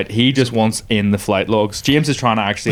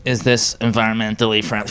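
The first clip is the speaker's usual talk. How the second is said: Greta impression. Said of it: "Greta impression is good".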